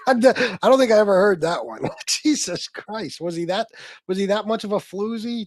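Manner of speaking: high, cracking-up incredulity; laughing disbelief. Real, not acted. Reacting to a chatter's brutal joke, laughing disbelief. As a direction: react scandalized through real laughter.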